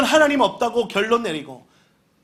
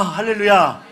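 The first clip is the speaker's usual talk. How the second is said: shouted hallelujah; 5 dB louder than usual. Real, not acted. Preacher calls out to congregation.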